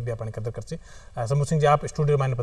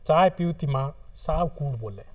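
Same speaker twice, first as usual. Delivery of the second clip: poetry recitation. Acted. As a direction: recite it line by line, unhurried. Recites own short poem. (कविता पाठ, ठहर-ठहर र)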